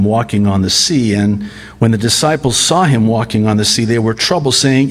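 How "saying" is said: ordinary talk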